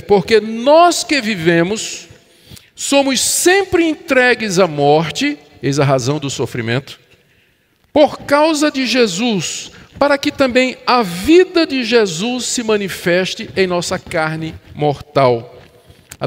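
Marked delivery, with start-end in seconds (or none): 0.0-5.4 high, slow, emphatic verse reading; preached scripture quote. Acted. Preacher quoting Paul's verse to the church, emphatic proclamation. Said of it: "ele explica, ele repete". 7.9-15.5 preached scripture quote. Acted. Preacher resuming Paul's verse for the church, emphatic proclamation. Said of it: "ele explica, ele repete".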